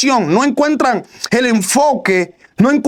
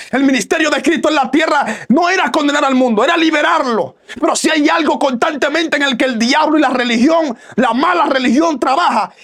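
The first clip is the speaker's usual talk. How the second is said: raised, shouting sermon voice; fiery pulpit preaching; preaching at full force; 2 semitones higher than usual. Acted. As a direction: drive it home to the congregation at full voice.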